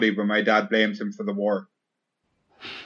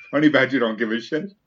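laughing through the words; laughing quote. Real, not acted. Friend quoting the honey badger meme while laughing. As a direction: blurt it out mid-laugh.

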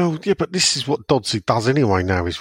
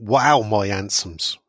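put-on West Country accent; slower than usual. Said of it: "difficult for me to do "wow" in that type of accent".

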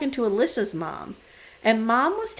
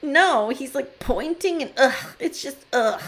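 mock teen disgust; 3 semitones higher than usual. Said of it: "channeling my fifteen-year-old daughters here".

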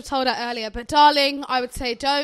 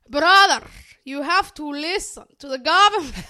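put-on loud Somali mum accent on brother, then settling; a Somali mum scolding her son in a thick accent; 6 dB louder than usual. Friend imitating a TikTok sister's Somali mum accent. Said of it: "really good mum accent".

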